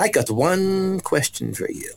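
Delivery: high, slow I got one question for you; slow gentle question. Retold or imitated. The preacher addressing the boy, a high slow question. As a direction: draw him in slowly. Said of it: "She said".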